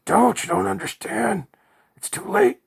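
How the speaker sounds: high, loud desperate pleading; scream of despair. A narrator's reading. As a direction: beg him to run as all hope goes. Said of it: "a scream of despair".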